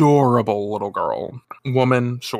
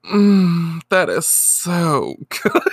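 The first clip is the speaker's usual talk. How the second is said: savouring chocolate; 4 semitones higher, much slower than usual. Retold or imitated. Superintendent relishing her chocolates, hammed-up bliss. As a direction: draw it out blissfully, then crack up.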